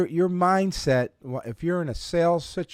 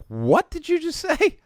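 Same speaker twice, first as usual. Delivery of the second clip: laughing; 4 dB louder than usual. Retold or imitated. Laughing retold question.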